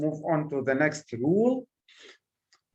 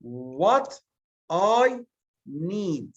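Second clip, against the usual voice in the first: "What" slow and set apart; "What" drawn out before "I need"; stress on WHAT; much slower than usual. Shown as a demonstration. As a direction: lean on "What" as the focus word. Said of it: "a tool like W H".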